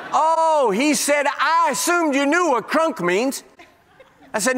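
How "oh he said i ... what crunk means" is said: high, laughing retelling of Tommy's reply; preacher voices young friend chuckling at him, laughing lightly; amused Tommy. Retold or imitated. Tommy's amused answer, retold.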